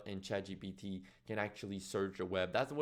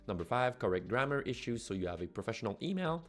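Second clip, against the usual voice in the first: upbeat, louder promo voiceover; ad read; 4 dB louder than usual. Acted. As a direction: read it like a punchy product ad. Scripted promo read over music.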